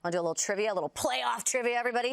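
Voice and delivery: bright, showy quiz host; game show host voice. Pretend. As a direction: hype the crowd like a TV host. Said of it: "that's my game show host voice".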